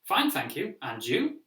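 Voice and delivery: stiff, recited answer; robotic textbook reply. Shown as a demonstration. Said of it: "sound a little bit robotic".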